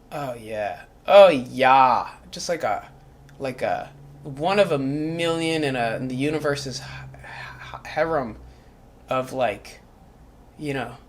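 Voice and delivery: very quiet, low, half-whispered reverie; hushed devoted musing; soft dreamy murmur. Acted. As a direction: drift off into a hushed daydream.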